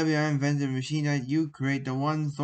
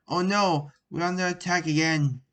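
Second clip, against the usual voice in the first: raised alarmed cry; mild alarmed yell; 4 semitones higher, 3 dB louder than usual. Acted. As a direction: call out the attack, half-shouting. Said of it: "his hand and yelled".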